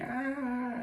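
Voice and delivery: high, restrained mock scream; drawn-out high cry, kept soft. Guy running back from the tunnel, mock screaming. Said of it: "now comes back screaming".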